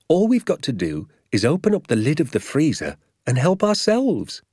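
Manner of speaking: rising to a high, grand finish; exuberant father. A narrator's reading. Father picturing suppers to his son, exuberant. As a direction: build up the dream with relish.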